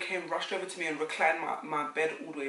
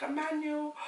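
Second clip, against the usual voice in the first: emotional call; 12 semitones higher than usual. Retold or imitated. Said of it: "And I was like".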